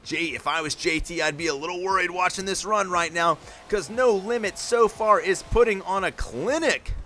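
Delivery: energetic sports commentary, rolling fast; live play-by-play. Acted. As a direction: call the run as it happens, building hype. Live monster truck play-by-play.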